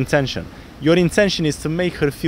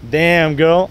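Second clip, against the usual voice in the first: cocky flirt; 5 dB louder than usual. Shown as a demonstration. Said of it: "I'm gonna talk a bit like this".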